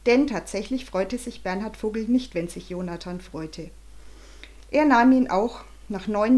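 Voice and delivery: put-on lively storybook reading for kids; story narration. A narrator's reading. Narrator reading to children, lively storybook voice. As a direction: read the chapter to children at bedtime.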